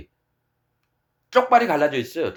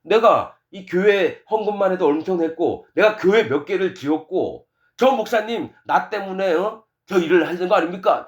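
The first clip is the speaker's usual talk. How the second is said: shameless, challenging protest; brazen self-justification; 3 semitones higher than usual. Acted. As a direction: act out a churchgoer confronting God with his merits. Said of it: "하나님 앞에 당당합니다".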